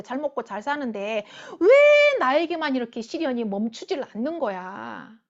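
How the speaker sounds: acted-out "why me" protest, bursting out on each first word; resentful complaint. Preacher voices a sufferer's first reaction to hardship, resentful. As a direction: complain like someone singled out for suffering. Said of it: "원망하고 불평하잖아요".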